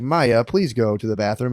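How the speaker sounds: put-on slow, even robot voice to a child; lightly voiced robot. Father tells daughter to use the bathroom, slow robot voice. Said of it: "we'll talk in a robot voice".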